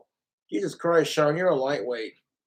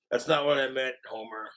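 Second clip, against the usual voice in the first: Moe; 5 semitones lower, 5 dB quieter than usual. Acted. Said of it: "My Simpsons voices".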